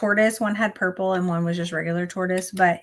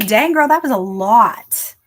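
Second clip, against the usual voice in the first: excited cheer; 3 semitones higher, 8 dB louder, slower than usual. Real, not acted. Cheering friend's word count.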